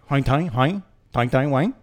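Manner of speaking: imitating a janitor's made-up gibberish language; mock foreign language. Janitor engaging a couple in the elevator, mock foreign language. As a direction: chant nonsense syllables as if they were real words. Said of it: "in his own version of their language".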